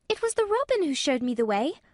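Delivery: put-on high, urgent girl's voice; gasping call. A narrator's reading. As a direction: blurt the explanation upward, pitched high. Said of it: "with a sort of gasp".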